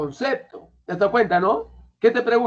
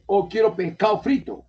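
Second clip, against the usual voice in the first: put-on Chincha accent. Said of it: "Cuando viene uno de Chincha, ¿cómo te dice?".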